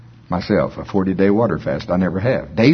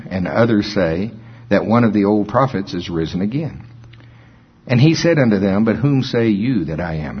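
scripture reading. Acted. Preacher reading Luke to the congregation, measured. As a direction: read the text with weight.

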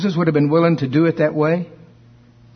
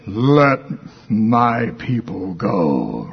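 slow, lower epic movie Moses; Charlton Heston; 4 semitones lower, much slower than usual. Retold or imitated. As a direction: boom out "Let my people go" like the film. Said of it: "we all saw Charlton Heston".

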